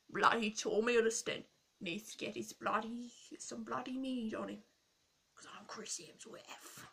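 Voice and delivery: badly faked Australian accent; hammed-up attempt at an Australian accent; Chris Hemsworth. Vlogger quoting an actor on his co-star, badly faked Australian accent. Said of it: "I can't do his accent".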